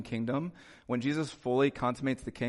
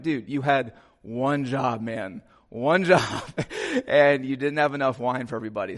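mock exasperation; 4 dB louder than usual. Guests ribbing the groom over the wine, mock exasperated.

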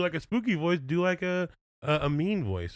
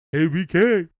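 high, loud, slow put-on spooky voice; spooky host voice; 11 semitones higher, 10 dB louder, slower than usual. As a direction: draw it out like a creepy game show ghoul. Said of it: "I said fiendship".

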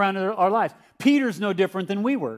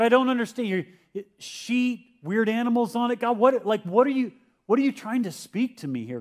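raised, pleading voice of a confused Peter, crying out to God; Peter's anguished plea; 3 semitones higher than usual. Retold or imitated. Preacher voicing Peter pleading to God, higher and earnest. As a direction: lift the pitch and plead, lost and bewildered. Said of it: "Peter in his heart was going".

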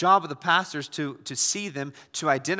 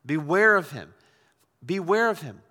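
slow, louder solemn beware; emphatic warning; 5 dB louder than usual. Retold or imitated. Paul warning Timothy about Alexander, emphatic. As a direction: hammer each beware home. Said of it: "He says".

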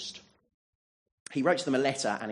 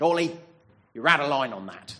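mock rebuke; 2 semitones lower, 6 dB louder than usual. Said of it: "grabbed me by the scruff of the neck and said".

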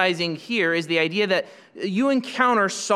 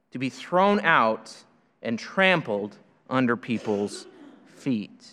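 slow, solemn reading of the verse; scripture reading. Acted. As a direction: read the text slowly and weightily. Pastor reads scripture aloud.

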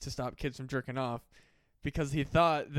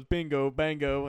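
slow deadpan, lightly imitated monotone; Critical deadpan; 4 dB louder, slower than usual. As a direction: drop it dry, no inflection. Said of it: "there's not a lot of inflection in his voice".

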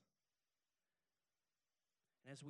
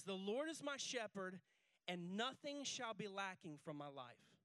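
slow, deliberate reading; 4 semitones higher, 5 dB louder, slower than usual. Shown as a demonstration. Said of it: "He says".

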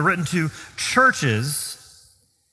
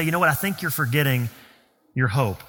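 mildly gentle, slightly lowered voice; 4 semitones lower than usual. Acted. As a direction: step in gently to remind a friend. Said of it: "we need to gently step in and say".

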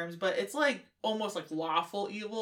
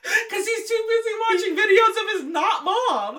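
laughing; 11 semitones higher, 10 dB louder than usual. Real, not acted. Both laughing hard.

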